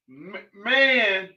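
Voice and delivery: reading a viewer's post aloud, slowly. Retold or imitated. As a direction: read it out slowly to the room. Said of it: "Listen at this here".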